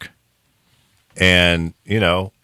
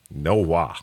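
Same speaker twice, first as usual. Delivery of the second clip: put-on drawn "wa" in a country Florida accent. Refusing to beg people to take his money, in a Florida country accent. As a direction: imitate Florida country folk saying "way". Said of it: "that little accent comes from".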